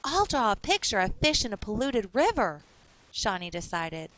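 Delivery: put-on clear, lively reading for children; story narration. A narrator's reading. Teacher reading a storybook aloud to kids. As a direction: read the picture book to young listeners.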